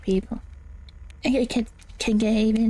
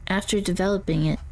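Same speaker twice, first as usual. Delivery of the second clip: character voice. Acted. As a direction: guide narrator voice, eerie and measured. Reads ghost-hunting guide in character.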